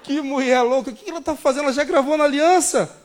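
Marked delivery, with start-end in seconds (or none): 0.0-1.7 exclaimed. Retold or imitated. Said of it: "eu comigo falei".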